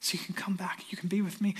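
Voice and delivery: a tender divine voice, lightly voiced, hushed at the end; voice of a loving God. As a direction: speak God's promise gently, almost whispered. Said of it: "But the promise of God is".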